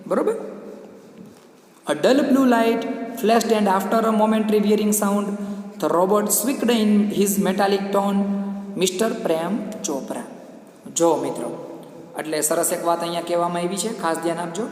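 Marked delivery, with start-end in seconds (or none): 1.9-10.2 very slow, drawn-out English reading; slow textbook narration for a class; story read-aloud. Acted. Reads the story text aloud.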